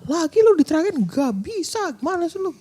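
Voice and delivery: mock exasperated telling-off; retold angry outburst. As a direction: re-enact telling off a partner, high but held back. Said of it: "gue marah banget sama dia, gue bilang".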